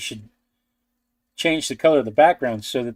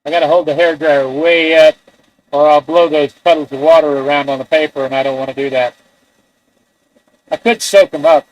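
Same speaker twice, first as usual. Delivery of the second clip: raised voice over a noisy dryer; talking over a hair dryer; 3 dB louder than usual. Real, not acted. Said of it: "Again, I'm talking while I'm hair drying".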